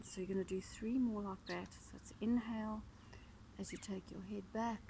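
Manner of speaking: calm, unhurried guiding voice with long pauses; softly paced yoga cueing, leaving room to breathe; guided yoga instruction. Real, not acted. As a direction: lead them gently through the breath and stretch. Guides a breathing neck stretch.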